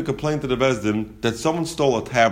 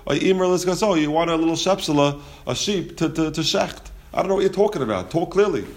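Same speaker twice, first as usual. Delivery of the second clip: raised, exasperated guessing; baffled listener; 4 semitones higher than usual. Retold or imitated. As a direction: puzzle over what he means, voice up.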